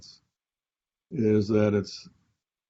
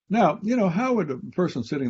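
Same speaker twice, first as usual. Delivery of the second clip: rhetorical pivot; 9 semitones higher, 5 dB louder than usual. Real, not acted. Rhetorical turn to listeners.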